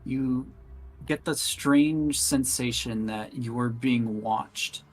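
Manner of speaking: slow, measured narration; unhurried storyteller with deliberate pauses; game master's scene setting. A narrator's reading. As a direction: narrate slowly, letting the suspense hang.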